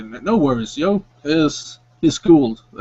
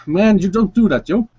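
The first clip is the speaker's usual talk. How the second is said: startled shop clerk; 6 semitones higher than usual. Acted. Clerk startled by a tap on the shoulder, swearing higher. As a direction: jump back at the sudden tap and swear. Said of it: "take a step forward and say".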